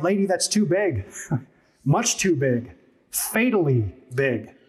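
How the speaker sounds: mildly shocked, slowing to weigh each phrase; retold shocked reply. Preacher answering a woman who felt so big, mock shocked. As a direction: imitate a taken-aback preacher, drawing out the last words. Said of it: "I was shocked and I replied".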